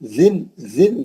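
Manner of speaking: touch the tongue to start जिन; slow, careful जिन. Shown as a demonstration. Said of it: "जबान लगा के".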